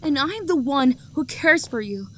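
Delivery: a rejected lover's bitter outburst; hurt anger. Acted. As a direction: build the jealous grievance. Jilted lover's rising outburst.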